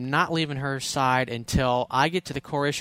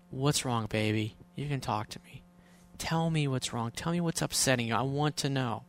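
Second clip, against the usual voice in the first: much softer, tender coaxing; soft reassuring; 6 dB quieter than usual. Retold or imitated. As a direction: gently invite her to open up. Comforting upset girlfriend.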